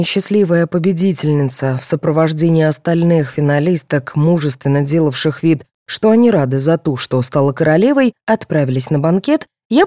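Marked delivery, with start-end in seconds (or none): none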